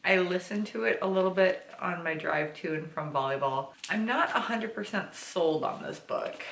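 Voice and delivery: lisping through retainers. Real, not acted. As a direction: talk with a retainer lisp. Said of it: "you get the lovely lisp".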